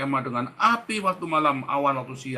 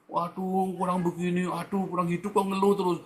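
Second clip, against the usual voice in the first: mock complaining; 6 semitones higher than usual. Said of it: "Atau kamu ngeluh".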